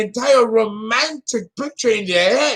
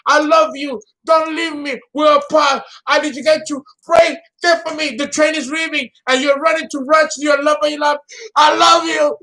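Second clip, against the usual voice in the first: hammed-up movie lovers; 4 semitones higher than usual. Acting out a dramatic movie romance.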